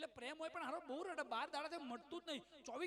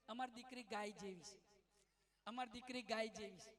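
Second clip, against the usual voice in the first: sweet-talking in-laws; 4 semitones lower, 3 dB quieter than usual. Retold or imitated. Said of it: "સામે પક્ષવાળા શું કહે છે".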